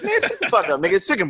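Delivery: high, laughing brush-off of the claim; laughing scoff. Retold or imitated. Podcast host laughing off a chicken chain CEO, high laughing scoff. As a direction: scoff it away through a laugh.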